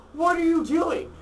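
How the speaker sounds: high, loud alarmed yelp; startled shout. Retold or imitated. Wife startled by her husband mid-act, shrieking in alarm. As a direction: shriek it in shock.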